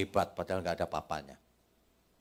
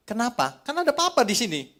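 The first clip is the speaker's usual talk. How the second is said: father voice; 14 semitones higher, 8 dB louder than usual. Retold or imitated. Father answering his clingy child.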